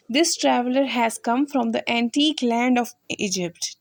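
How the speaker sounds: slow, careful dictation pace; slow example sentence. Shown as a demonstration. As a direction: read each word out slowly for the class. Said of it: "ये इसका sentence है". (धीमे, साफ़ उच्चारण में)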